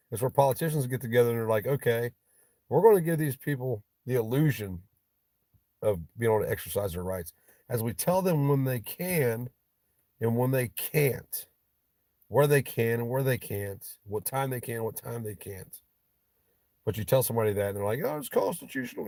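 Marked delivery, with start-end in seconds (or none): 1.7-15.8 a hint of a smug politician, slowed for effect; lightly voiced scheming politician laying down rules; mocking politicians. Mock politician voice. 18.0-19.1 high mock naive voice; high mocking gullible dupe.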